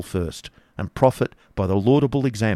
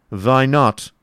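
higher, louder retort; challenging Baron; 4 semitones higher, 5 dB louder than usual. Acted. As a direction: throw it back as the Baron. Baron challenges the scared figure.

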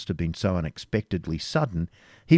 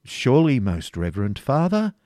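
eager protest; 6 semitones higher, 5 dB louder than usual. A narrator's reading. Preceptor pleading before superior.

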